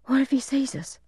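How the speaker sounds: put-on high-pitched anxious child's voice; worried little boy. A narrator's reading. Little brother worrying to big brother in hiding, high anxious voice. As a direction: fret high, like a young kid.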